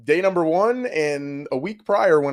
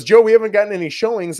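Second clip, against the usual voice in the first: higher and louder, a panicked friend calling; freaking out; 8 semitones higher, 8 dB louder, faster than usual. Retold or imitated. Friend calling the agent about no showings, panicky. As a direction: sound like a friend in a mild panic. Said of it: "freaking out".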